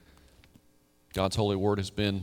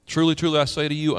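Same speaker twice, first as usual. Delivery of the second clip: solemn proclamation; 5 semitones higher, 5 dB louder, faster than usual. Acted. Preacher reads Jesus' words.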